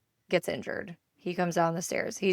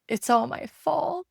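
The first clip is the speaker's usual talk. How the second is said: put-on high, drawn-out kid's wail; mock tearful whine; imitated crying child; 10 semitones higher, 4 dB louder than usual. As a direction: voice a weepy little boy, pitched up and slow. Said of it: "he's crying, and he's like".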